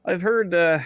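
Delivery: pirate voice. Shown as a demonstration. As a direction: put on the pirate, loud. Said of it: "what's Dane's voice again?".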